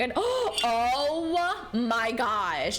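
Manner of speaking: gasp, then oh my gosh; sudden delighted gasp; surprised gasp. Real, not acted. Sudden recognition of drawing.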